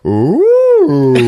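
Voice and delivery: high, rising imitated whimper; mock frightened "ooh". Duck answers a threat, imitated high whimpering "ooh". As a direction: let out a comic high "ooh".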